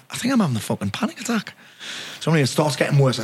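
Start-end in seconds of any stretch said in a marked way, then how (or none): 0.1-1.5 retold panic. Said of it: "I'm like".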